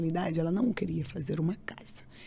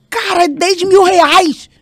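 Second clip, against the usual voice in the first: much higher and louder, slow and outraged, stressing "mil"; shocked shout; 13 semitones higher, 22 dB louder, slower than usual. Retold or imitated. To her calm husband about the price, shocked shout. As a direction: yell "Cara, é dez mil reais" in disbelief. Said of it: "E eu senti ele muito calmo".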